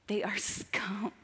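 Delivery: hissed whisper of contempt; contemptuous whisper. Retold or imitated. Whispering her private contempt to the congregation. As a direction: breathe it out with disgust.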